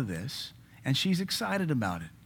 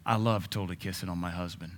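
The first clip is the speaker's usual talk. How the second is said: mock girlfriend gush; 7 semitones lower, 7 dB quieter than usual. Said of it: "sit down and say".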